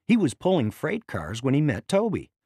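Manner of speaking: ordinary delivery, nothing marked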